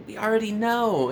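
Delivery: high mocking we already know; bored. Classmates dismissing his coming out, mocking. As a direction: flatly brush him off. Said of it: "and they're like".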